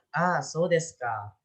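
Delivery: slow "Ah, so desu ka" settling downward; falling tone of understanding. Shown as a demonstration. Teacher showing someone who has understood, "so desu ka" falling. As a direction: let "ka" fall, as if you now understand. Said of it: "telah mengerti akan sesuatu".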